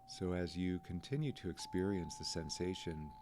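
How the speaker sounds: calm, unhurried meditation guide, pausing between phrases; lightly softened guiding voice, leaving room to breathe; guided meditation. Real, not acted. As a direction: gently guide listeners through noticing the breath.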